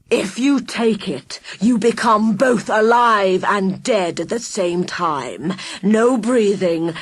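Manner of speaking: slow, savouring villain voice; villain relishing his poison; menacing villain. Acted. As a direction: drip the threat out slowly. Villain describes living death.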